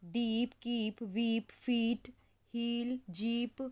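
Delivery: slow, each word held; teacher reading the word list slowly. Shown as a demonstration. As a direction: read हील and जीप slowly. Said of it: "इतने सारे words मैंने आपको लिखवा दिए हैं".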